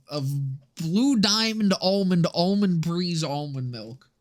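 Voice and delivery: drawn-out brand names like a fake sponsor; slow, deliberate parody product plug; mock ad read. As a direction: pitch it like a hammed-up commercial. Mock sponsor pitch for almond milk.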